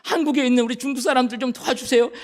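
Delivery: pleading through crying; tearful prayer. Retold or imitated. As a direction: voice cracking with tears as he prays. Emotional prayer at deportation.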